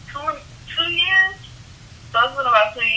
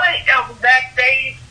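ordinary delivery

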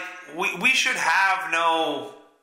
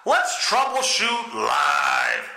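announcing; 6 semitones higher, much slower than usual. Real, not acted. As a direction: call it out like a host. Laptop problem on air.

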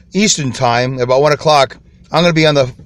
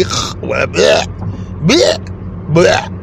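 mock spitting noises; much slower than usual. Describing passersby spitting, with imitated spitting sounds. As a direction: spit it out, bleh bleh.

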